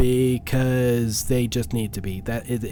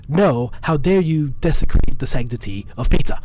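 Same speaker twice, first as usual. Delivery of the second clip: shaking with anger; 4 dB louder than usual. Pretend. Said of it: "I'm gonna continue with the meme".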